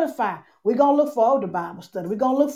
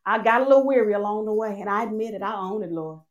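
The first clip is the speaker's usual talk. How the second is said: confessional prayer; 2 semitones lower than usual. Acted. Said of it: "we're saying today".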